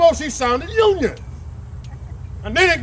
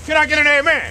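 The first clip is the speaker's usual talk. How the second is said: shouted amen call. Real, not acted. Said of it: "call for response".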